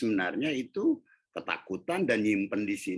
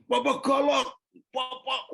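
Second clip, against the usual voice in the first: put-on much higher child voice, complaining; small child's voice; 6 dB louder than usual. Daughter telling papa he's fierce, high child voice. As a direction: squeak it like a little kid telling on dad.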